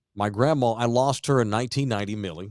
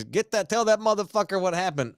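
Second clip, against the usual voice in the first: mock injured wife; 8 semitones higher than usual. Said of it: "she's like".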